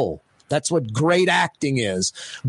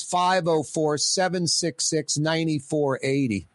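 slow, deliberate number read; 5 dB quieter, slower than usual. Shown as a demonstration. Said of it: "phone lines".

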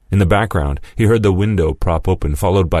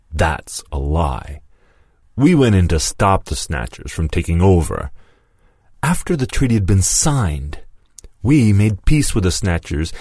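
a hint of a rising accuser, higher as he goes; Lewis rebutting; 3 semitones higher than usual. Lewis rebuts Mason's war story, rising. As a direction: let the accusation climb.

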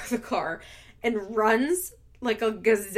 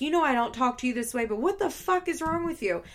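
retold scream; 4 semitones higher than usual. Cody berating his pregnant girlfriend, mildly mimicked scream. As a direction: imitate a heated scolding without shouting. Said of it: "Cody's screaming".

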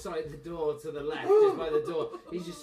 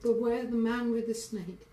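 pinched voice; 3 semitones higher than usual. Pretend. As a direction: stammer a warning like a scared boy. GM voices crying kid.

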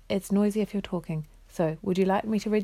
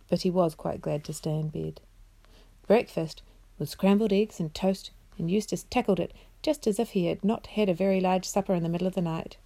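expressive bedtime story narration; measured storyteller voice; reading to children; 4 dB quieter than usual. A narrator's reading. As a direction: read it aloud as a storybook for children. Reads story aloud to children.

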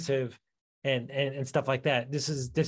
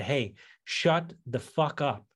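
slow, deliberate telling-off; retold firm order; much slower than usual. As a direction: space the words out slowly, firmly. Retold scolding of his buddy.

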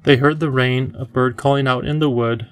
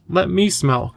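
put-on higher-pitched, eager child; eager cry; 6 semitones higher, slower than usual. A narrator's reading. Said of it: "cried Lindy".

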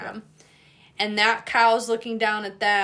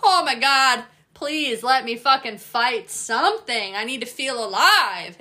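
eager fight-hungry dog; 5 dB louder than usual. Acted. Leashed dog spots another dog, loud eager challenge.

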